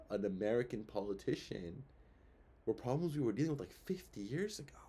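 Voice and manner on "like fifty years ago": breathy unvoiced aside, half to yourself; whispered aside. Real, not acted. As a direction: drop to a whisper for the last words. Aside during rant.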